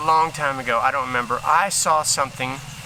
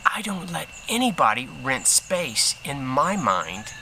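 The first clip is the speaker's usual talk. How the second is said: calm wise reply; 3 semitones lower, slower than usual. Retold or imitated. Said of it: "looked at him right in the face and said".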